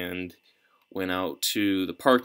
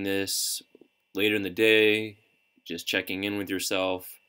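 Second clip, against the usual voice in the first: unhurried guidance with long pauses between phrases; calm, measured coaching through breath and body scan; guided meditation. Real, not acted. Coach leading listeners through breathing and a body scan, calm meditation guidance.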